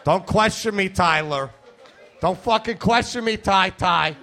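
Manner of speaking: mock-tough little kid telling off his buddy; angry two-year-old. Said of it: "That's my impression of a two-year-old".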